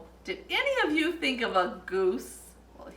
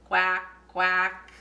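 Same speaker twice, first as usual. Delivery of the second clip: duck quack; 4 semitones lower than usual. Pretend. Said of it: "the duck can say".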